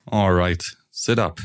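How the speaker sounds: a touch of firm command; telling her to sit up, firmly but lightly. Acted. Husband prompting his wife, mildly commanding. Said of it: "He took a commanding tone in his voice".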